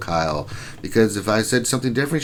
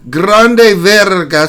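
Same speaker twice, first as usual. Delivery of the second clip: slow, higher, louder "Grande Verga"; announcer call; 8 semitones higher, 9 dB louder, much slower than usual. Acted. Streamer announcing viewer Grande Verga, big ring-announcer call.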